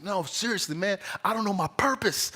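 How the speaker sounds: mock upset, high-pitched pleading; tearful earnest buddy. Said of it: "he got a little sad, and you could see, like, tears in his eyes".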